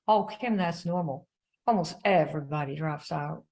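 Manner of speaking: mild imitated Southern drawl on Oh, Kim; lightly voiced Southern upline lady again; a touch of Southern drawl. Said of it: "in her little Southern drawl".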